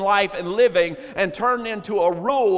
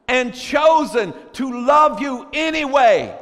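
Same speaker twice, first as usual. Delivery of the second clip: emphatic preaching; 3 semitones higher, 3 dB louder than usual. Real, not acted. Preacher tells congregation about loving people anyway, emphatic and deliberate preaching. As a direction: preach it in measured, punched phrases.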